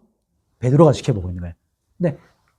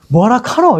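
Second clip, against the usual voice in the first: higher-pitched Gyeongsang dialect question; 7 semitones higher, 4 dB louder, slower than usual. Shown as a demonstration. Preacher showing how a provincial would answer, Gyeongsang dialect. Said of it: "제가 이제 경상도 사투리를 쓰면".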